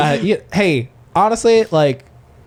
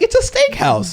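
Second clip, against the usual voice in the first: realizing. Retold or imitated. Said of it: "I was like".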